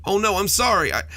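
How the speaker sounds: panic, then a shrinking apology; quailing in terror. A narrator's reading. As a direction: monster cowering in fright. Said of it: "The monster quailed in terror".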